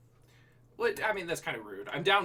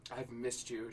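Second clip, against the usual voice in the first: softly, a bit quieter; 3 semitones lower, 9 dB quieter, slower than usual. Acted. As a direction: say it softly and fondly. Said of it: "she said softly".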